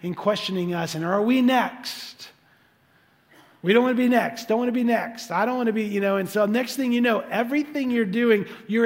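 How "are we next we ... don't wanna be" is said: paranoid worry. Retold or imitated. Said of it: "got immediately paranoid".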